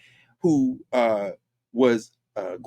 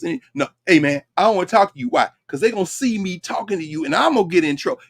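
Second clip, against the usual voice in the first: mock timid coworker; 5 semitones higher, 3 dB louder than usual. Voicing the scared coworker.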